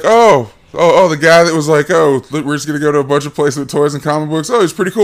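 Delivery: lightly voiced delighted child; mock excited kid. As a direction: gush like a kid won over by toys. Voicing the kids.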